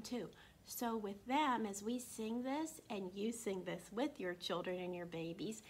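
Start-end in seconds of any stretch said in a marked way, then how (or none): 2.9-5.6 soft unvoiced whisper. Real, not acted. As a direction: whisper it to the parents. Aside to parents.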